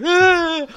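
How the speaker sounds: high, loud horrified cry; horrified scream. Retold or imitated. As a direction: let out a shriek of disgust. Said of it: "Oh, you were so horrified".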